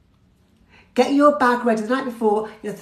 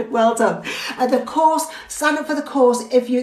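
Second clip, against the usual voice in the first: ordinary talk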